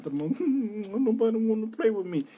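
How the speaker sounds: put-on high, slow whiny child voice; mock crying child. Mocking his younger self crying in the sandbox, high and whiny. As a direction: mimic a sulking kid in the sandbox. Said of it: "sit in the sandbox crying".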